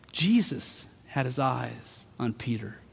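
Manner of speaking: usual speaking voice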